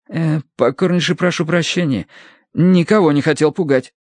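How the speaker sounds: chopped phrases. A narrator's reading. Young man apologises to hostess, chopped phrases. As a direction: apologise in broken chunks. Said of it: "заразился от полковника манерой рубить фразы".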